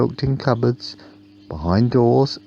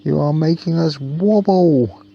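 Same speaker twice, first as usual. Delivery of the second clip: put-on child voice; 8 semitones higher, 4 dB louder than usual. A narrator's reading. Children complain to the bus.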